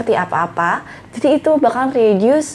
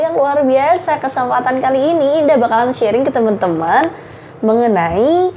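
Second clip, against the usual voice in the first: improved opening. Shown as a demonstration. Presenter welcoming an online marketing class, confident and fluent. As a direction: open confidently like a seminar host. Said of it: "Oke, kita ulangin".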